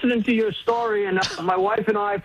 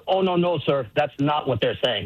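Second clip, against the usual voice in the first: put-on French accent; 5 semitones lower than usual. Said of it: "in a very French accent".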